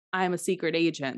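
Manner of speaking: ordinary talk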